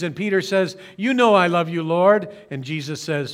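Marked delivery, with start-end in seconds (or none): 1.0-2.3 louder, pressing the point; insistent answer. Retold or imitated. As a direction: say it with more conviction. Peter answering again, insistent.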